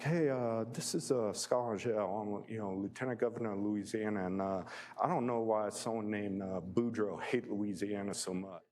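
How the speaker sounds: amateur impression of a Louisiana accent; Scott Angel's Louisiana accent. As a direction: imitate a Louisiana lieutenant governor introducing himself. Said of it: "I'm gonna try to do the accent".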